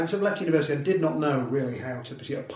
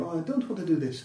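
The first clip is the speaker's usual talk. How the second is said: put-on Russian accent; 3 semitones higher than usual. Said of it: "Not the world's best Russian accent".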